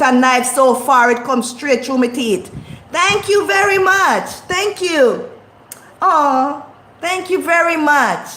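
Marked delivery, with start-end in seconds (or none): 2.9-8.3 fast, higher mock gratitude; mock gushing thank-you; sarcastic thanks. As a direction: gush with sarcasm.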